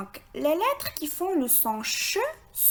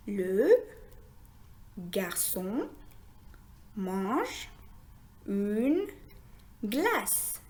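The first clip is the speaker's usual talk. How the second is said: word-by-word reading; 3 dB quieter, much slower than usual. Shown as a demonstration. Teacher reading a sentence with learners, word by word. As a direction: read it one word at a time, long pauses between. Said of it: "Essayons maintenant de lire une phrase".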